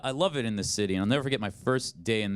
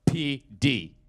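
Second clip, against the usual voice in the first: slow, drawn-out movie-cop swagger; mock badass cop, very slow; tough cop line; 6 semitones higher, much slower than usual. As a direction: lay it down like a hammy action hero. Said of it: "he goes".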